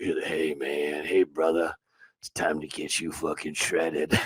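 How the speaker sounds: very deep, gravelly, raspy voice with slow drawl. Retelling a voicemail left on your phone, do Kyle's deep raspy voice. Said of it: "Kyle has has like a real deep raspy voice".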